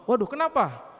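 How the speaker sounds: a high, mildly alarmed "why"; concerned mother. Acted. Mother hearing her child was bullied, mildly alarmed. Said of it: "lapor sama ibunya".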